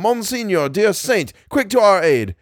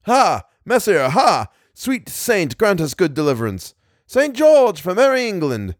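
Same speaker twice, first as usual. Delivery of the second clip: high, ringing calls of a phantom host; shouted battle cries; 8 semitones higher than usual. A narrator's reading. Thousands of bowmen call on Saint George, shouting. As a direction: cry out to the saint for succour, pitch raised. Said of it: "thousands shouting".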